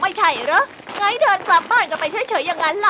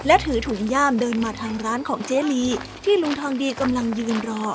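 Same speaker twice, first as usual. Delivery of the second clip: lower, calm storyteller reading; story narration; 4 semitones lower than usual. A narrator's reading. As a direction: narrate the scene for listeners. Storyteller narration between scenes. (เสียงผู้บรรยายเล่านิทาน)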